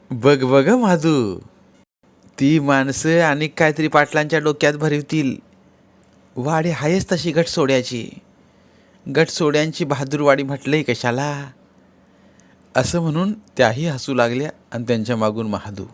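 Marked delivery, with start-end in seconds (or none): 0.1-11.5 sister-in-law. Acted.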